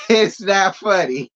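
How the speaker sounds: giggling through a denial; laughing while insisting it's not funny. Real, not acted. Vlogger to viewers, can't stop laughing. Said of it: "That's not what I'm laughing at".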